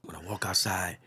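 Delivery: breathy hushed whisper. Retold or imitated. Whispering to the audience while telling of feeling faint. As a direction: hush it as if about to faint.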